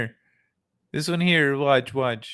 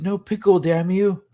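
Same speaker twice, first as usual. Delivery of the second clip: mock angry; 6 semitones higher, 4 dB louder than usual. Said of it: "I said".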